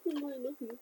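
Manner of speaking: soft, cooing to a pet; quiet, adoring baby talk; doting coo. Retold or imitated. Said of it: "she sees an animal and she's like".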